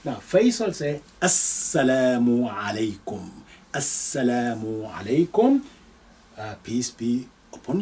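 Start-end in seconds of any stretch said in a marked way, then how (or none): 1.2-3.3 slow, careful, every syllable clear; slow for pronunciation. Shown as a demonstration. Teacher reading the greeting slowly for the class, careful and slow. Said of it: "I'll read this more slowly than usual for pronunciation". 3.7-5.6 quick, natural السلام عليكم at everyday speed; natural pace. Shown as a demonstration. Teacher repeating the greeting for students, now at natural speed. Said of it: "I'll read this more slowly than usual for pronunciation".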